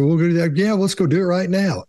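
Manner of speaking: high, eager mock-overconfident boast. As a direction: imitate a cocksure person jumping right in. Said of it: "the person who's overconfident".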